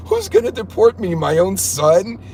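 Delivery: high, laughing-at-the-idea disbelief; incredulous rhetorical question. Real, not acted. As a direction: pitch it up, drag out the punchline. Mocks the threat in disbelief.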